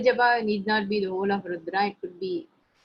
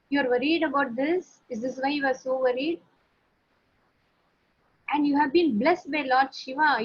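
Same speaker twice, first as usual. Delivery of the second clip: cheerful son; 5 semitones higher than usual. Acted. Son cheerfully reassures worried father.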